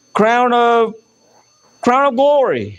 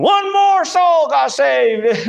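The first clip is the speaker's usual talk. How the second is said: drawn-out celebratory call, pitched up a little; mock angels' shout; 5 semitones higher, much slower than usual. Angels in heaven celebrating a saved soul, acted shouting. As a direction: call it out slowly like rejoicing angels. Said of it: "They're all shouting".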